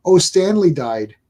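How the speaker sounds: "Stanley" in one smooth word, stress on STAN; Stanley as one name. Retold or imitated. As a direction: say "Stanley" run together as one surname. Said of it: "kept saying Stanley".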